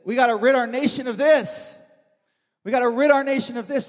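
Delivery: Elijah's resolve. Retold or imitated. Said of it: "Elijah says".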